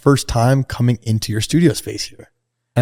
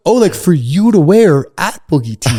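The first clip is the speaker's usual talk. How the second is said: higher, puzzled imitation of the friend; confused friend; 6 semitones higher, 3 dB louder than usual. Friend mistaking whose outfit it is, puzzled mock voice. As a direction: play the friend missing the point. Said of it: "he goes".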